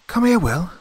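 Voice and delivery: high, loud summons; calling over. A narrator's reading. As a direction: call a shipmate across the deck. Summoning shipmate across the deck.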